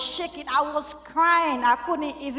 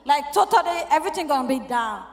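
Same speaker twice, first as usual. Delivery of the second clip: desperate prayer; 2 semitones higher than usual. Retold or imitated. Mother driving home praying God will spare her house, desperate and pleading. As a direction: beg God for help as the house may burn.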